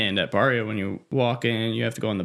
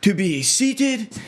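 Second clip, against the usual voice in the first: mock Russian accent, higher and slow at the end; 7 semitones higher than usual. Customer imitating a rude Russian-sounding diner, mock Russian accent. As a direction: put on a thick Russian accent for the rude man. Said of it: "I was gonna do an accent".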